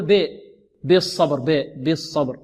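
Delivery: بالصبر opened with a slack "beh" for "bi"; impure kasra error. Retold or imitated. Teacher imitating students' mistake, impure "be" in بالصبر. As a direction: loosen the first vowel of بالصبر towards e. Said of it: "بعض الطلاب يقول".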